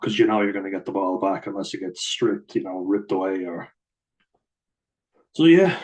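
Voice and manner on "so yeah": laughing. Real, not acted. Laughing at own rugby rant.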